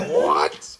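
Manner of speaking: a low, stunned what. Retold or imitated. Wife hearing the placenta story, low shocked what. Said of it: "She was like".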